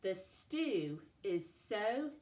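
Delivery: slow, word by word with pauses; sentence dictation. Shown as a demonstration. Teacher giving a sentence to write together, slow dictation. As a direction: dictate it deliberately, separating each word. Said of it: "say it again with me".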